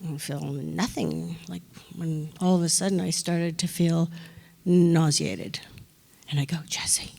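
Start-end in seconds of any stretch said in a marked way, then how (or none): 0.0-1.4 puzzled murmur. Retold or imitated. Retelling her numb reaction. 6.7-7.1 a hushed, urgent aside to the director; urgent whisper. Retold or imitated.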